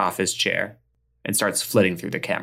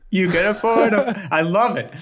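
high, bright pitch voice; commercial voice; 11 semitones higher than usual. Acted. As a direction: echo the slogan like an ad. Repeats ad slogan.

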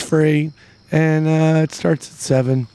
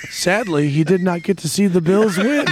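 laughing; 3 semitones higher than usual. Retold or imitated. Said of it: "so the article goes".

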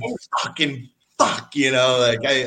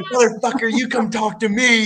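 retold shout; 12 semitones higher, 7 dB louder than usual. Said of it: "I'm like".

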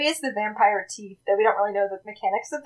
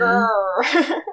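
playful "grr" growl; a token growl, not frightening; mock snarl; 2 semitones lower than usual. Guest answering a request for a snarl, mock growl. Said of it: "give me your best snarl".

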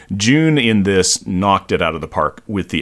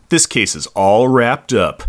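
slow, deliberate punchline; mock-cool one-liner; slower than usual. Detective puts on sunglasses, slow mock-cool punchline. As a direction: land the pun like a TV detective, slowly.

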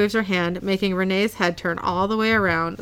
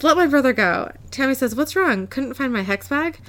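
laughing retell; 6 semitones higher than usual. Real, not acted. Still laughing while retelling.

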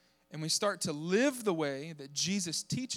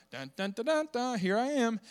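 hammed-up fanfare then a boast; mock grand entrance; 5 semitones higher than usual. Preacher mocking a showy arrival, playful fanfare. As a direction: sing a cheesy trumpet entrance. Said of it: "Jesus didn't show up, right? Like".

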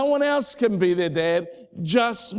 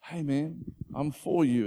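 gentle whisper; 5 dB quieter than usual. Retold or imitated. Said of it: "God's just gently whispering away to you".

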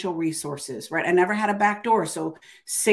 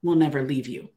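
slow, measured, emphatic command; inner divine voice. Retold or imitated. Voice in her head lifting her off the floor, slow insistence. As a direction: deliver each phrase as a firm promise, drawn out. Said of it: "I heard this voice in my head".

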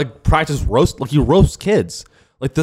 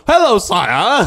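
higher, very slow, drawn-out courtly greeting; Renaissance fair greeting; 9 semitones higher, 3 dB louder, much slower than usual. Acted. Fair worker greets customer asking for manager, slow courtly voice. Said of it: "you can drop the spiel".

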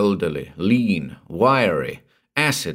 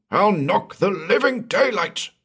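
angry shout; 12 semitones higher than usual. A narrator's reading. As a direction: bellow it at the young man with raised fists. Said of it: "he shouted at Gordon".

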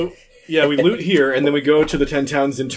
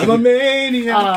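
character voice; 10 semitones higher, 4 dB louder, much slower than usual. Acted. Player voicing character.

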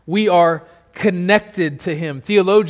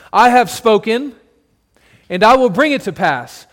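a bit louder, firm divine declaration; quoting God; 2 semitones higher, 4 dB louder than usual. Acted. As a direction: declare it as God's unbreakable promise. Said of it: "and he says".

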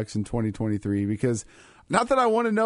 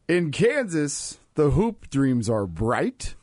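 poem reading; much slower than usual. Acted. Reads AI limerick aloud.

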